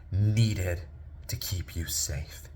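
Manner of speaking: put-on slow, hushed reassurance to a child; tender explanation. Father gently explains to son.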